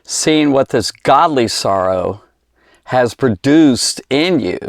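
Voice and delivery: slow, deliberate reread of the verse. Shown as a demonstration. Preacher rereads the verse for his viewers, slow and deliberate. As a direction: linger over every word of the verse. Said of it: "Say that again".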